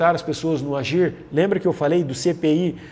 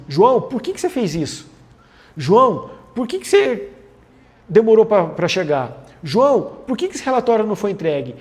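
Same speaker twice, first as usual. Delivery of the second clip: louder, higher, pressing interrogation of João; accusing why questions; 3 semitones higher, 4 dB louder than usual. Shown as a demonstration. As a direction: grill him with a blaming why. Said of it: "quando eu falo assim".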